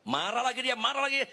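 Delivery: high-pitched mock alarm; high exclamation. Pastor reporting his wife's anger, high and exasperated. Acting out wife getting angry again.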